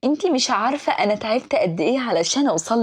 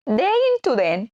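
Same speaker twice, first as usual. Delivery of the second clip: playful sting; 3 semitones higher than usual. Shown as a demonstration. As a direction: lift the pitch on "داين تو دان". Spoken sting repeated higher.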